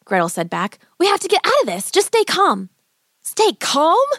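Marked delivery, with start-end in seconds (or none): 1.0-2.7 put-on high, urgent young girl; steady your brother like a girl. A narrator's reading. Girl trying to calm brother. 3.2-4.1 hissed. A narrator's reading. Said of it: "Hansel hissed".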